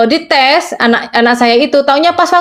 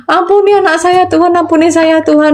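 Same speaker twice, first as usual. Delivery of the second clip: retold plea to God, starting higher and settling; pleading prayer; 3 semitones higher than usual. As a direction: beg forgiveness in a re-enacted prayer. Retold desperate prayer for her son.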